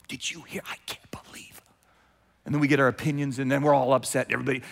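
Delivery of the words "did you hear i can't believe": hushed, breathless gossip whisper. Acted. Churchgoer passing on gossip in a hushed whisper. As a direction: lean in and spread the scandal quietly.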